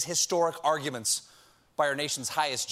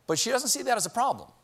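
mock outrage; 6 semitones higher than usual. Real, not acted.

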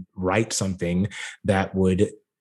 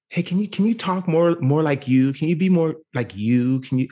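higher voice, imitating the note; casting director voice; 6 semitones higher than usual. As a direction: mimic a director's request.

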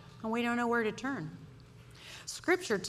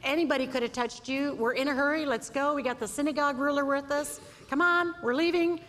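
higher, louder, hurried urging; impatient Peter; 6 semitones higher, 3 dB louder than usual. Acted. Peter urging Jesus to hurry, higher and louder. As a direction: push Jesus to leave, brisk and high.

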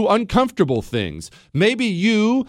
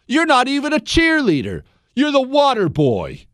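ordinary delivery

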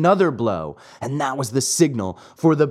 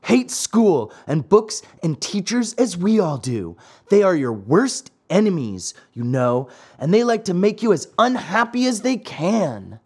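a hint of a boy egging on a playmate; lightly voiced schoolboy; 5 semitones higher than usual. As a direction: coax him to rebel, slightly raised voice. Boys urge Pinocchio.

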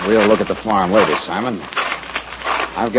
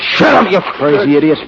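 furious yell; 6 semitones higher than usual. Acted. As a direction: shout him down hard. Yells at Lou.

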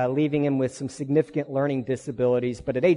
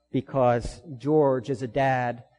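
soft, tender storytelling; 3 semitones lower, 4 dB quieter than usual. Real, not acted. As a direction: let it fall quiet and tender.

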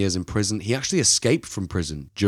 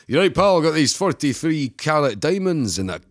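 imitated Scottish lad, pitched up at the start; young Scottish boy; 5 semitones higher than usual. Young Scottish thief pitching stolen diamonds to buyers, Scottish accent. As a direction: put on a young Scotsman's accent. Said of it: "poor Scottish boy shows up being like".

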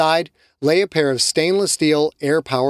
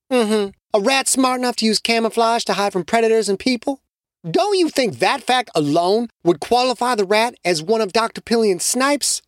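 higher-pitched, dry sarcasm; sarcastic Shamiqua; 8 semitones higher than usual. Acted. Shamiqua needling Carlos, sarcastic higher voice. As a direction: needle him with a pointed question.

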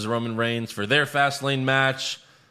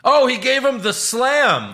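slow, much higher mock announcer voice; Michael Cole; 13 semitones higher, 8 dB louder, slower than usual. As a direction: drag it out like a hammy commentator. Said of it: "as Michael Cole called them".

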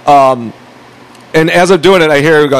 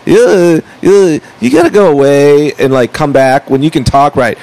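mock awful way of talking; retold obnoxious talker; obnoxious drawl, imitating. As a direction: imitate someone with dragged-out, obnoxious vowels. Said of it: "that fucking awful way that a person talk".

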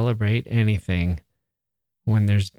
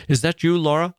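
Laurie's voice; 6 semitones higher than usual. Acted. Laurie calling to sister.

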